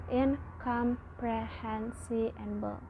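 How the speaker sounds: "in, com, pre, hen, si, and bo" each syllable separated. Shown as a demonstration. Student teaching the class, splitting "in, com, pre, hen, si, and bo" into separate syllables. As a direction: break incomprehensible into its beats. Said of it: "Incomprehensible has six syllables".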